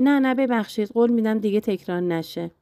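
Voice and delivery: a lightly played fluster, quick apology; mock panic, rushing to say sorry; flustered and hurried. Wife hastily apologizing to her husband: lightly flustered. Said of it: "دستپاچه و هول گفتم".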